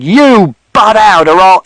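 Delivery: high, loud, slow threat; menacing yell; father shouting. A narrator's reading. Father threatening Mister Shears, furious. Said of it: "And father shouted".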